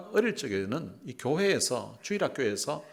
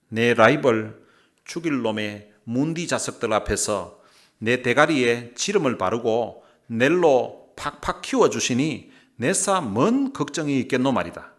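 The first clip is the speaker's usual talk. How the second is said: loud, punchy Gyeongsang dialect reading; 7 dB louder than usual. Shown as a demonstration. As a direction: belt out scripture in Gyeongsang dialect. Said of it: "경상도 버전을 한번 읽어드리겠습니다". (힘주어 크게 경상도 사투리로 읽기)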